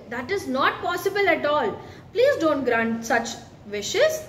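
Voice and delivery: a husband aghast at his wife's wish; children's storyteller voicing a shocked fisherman.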